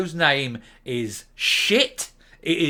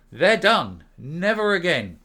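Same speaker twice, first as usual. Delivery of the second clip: angry; 3 semitones higher, 5 dB louder than usual. Real, not acted. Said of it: "I did really kind of lose my shit".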